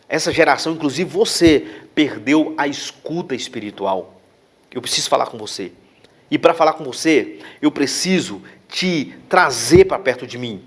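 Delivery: hushed, tender voice of the Holy Spirit, sinking to a whisper; voice of God, gently. Retold or imitated. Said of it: "eu senti o Espírito Santo falar no meu coração".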